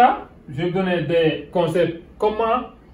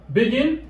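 "Begin" with the weight on "gin"; higher "Begin", rising on its stressed second syllable; 5 semitones higher than usual. Shown as a demonstration. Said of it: "l'accent est sur le second".

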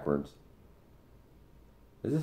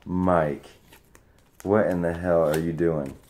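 mock outraged yell; 2 semitones higher, 5 dB louder, slower than usual. Real, not acted. Mock outrage at friend's gift.

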